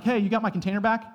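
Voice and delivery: high, quick surprised neighbor. Retold or imitated. Neighbor greeting the widow about a returned container, high and quick. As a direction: pop the question up high and fast, delighted. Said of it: "imagine being like".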